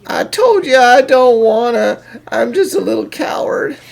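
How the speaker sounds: scared protest. Acted. Refusing to stand, scared.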